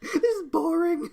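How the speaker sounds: bored Kimber. Retold or imitated. Imagined bored Kimber line.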